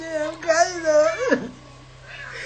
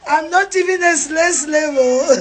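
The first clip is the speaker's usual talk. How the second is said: mock crying. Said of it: "That she's crying".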